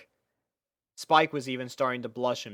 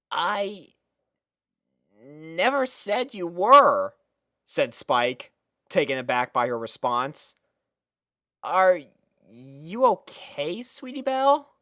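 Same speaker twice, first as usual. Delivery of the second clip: put-on lightly raised, easygoing boy voice; a hint of a boyish friend; casual young dragon; 4 semitones higher, 3 dB louder than usual. Young dragon casually greeting his friend, easygoing boy voice.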